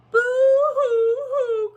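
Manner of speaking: high, loud, slow boo-hoo wail; hammed-up pet sobbing; mock crying. Cat and dog wailing to their owner, mock crying. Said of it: "cried Meow and Bow Wow".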